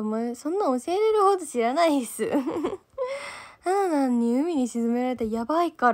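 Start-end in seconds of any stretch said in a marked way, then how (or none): 2.4-3.6 高い声で弾けるように笑う; 思わず吹き出して笑う; 笑い声. Real, not acted. 配信中に笑う. (高く弾ける笑い声)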